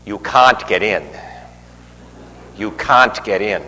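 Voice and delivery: imitating a friend's thick Boston accent, punched on CAN'T. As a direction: mimic a Boston gentleman turning someone away. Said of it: "said it with a real thick Boston accent".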